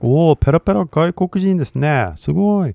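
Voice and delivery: high, fast awed reaction in Japanese; impressed. Retold or imitated. Listener reacting to a foreigner's fluent Japanese, impressed. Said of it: "I was impressed".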